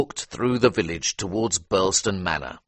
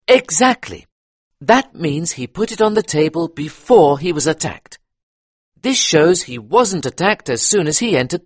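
higher, louder eager police inspector; 10 semitones higher, 7 dB louder than usual. A narrator's reading. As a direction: talk it through like a keen detective. Inspector continues.

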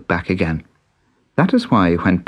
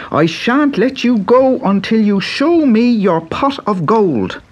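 put-on high, eager young Irish boy; bright boyish Irish lad; Pat's boy voice; 14 semitones higher, 6 dB louder than usual. A narrator's reading. Pat threatens leprechaun.

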